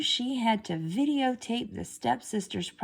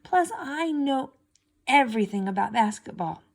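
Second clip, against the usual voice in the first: higher, indignant protest; indignant Cinderella; 7 semitones higher than usual. A narrator's reading. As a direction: insist she knows it all, hurt and proud. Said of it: "she thought".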